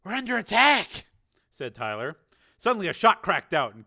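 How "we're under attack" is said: high, loud warning cry; urgent raised yell; shouted alarm. Acted. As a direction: shout the alert. Alarm as battle breaks out.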